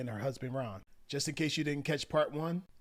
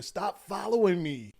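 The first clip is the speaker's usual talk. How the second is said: raised, louder exasperated order; acted loud arguing; 5 semitones higher, 5 dB louder than usual. Husband tells wife trailing behind him, acted annoyed. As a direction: play an irritated husband. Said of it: "this fight got loud".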